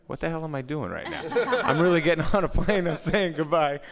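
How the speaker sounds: high, loud comic outburst; mock-incredulous yell at yourself; retold exasperation. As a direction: relive the disbelief loudly, pitched well up. Retelling own panicked thoughts to a laughing audience.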